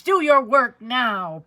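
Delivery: slow, a touch of pleading; mild plea. Acted. Mother begging her son, mild plea. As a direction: ask him gently but slowly. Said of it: "pleaded his mother".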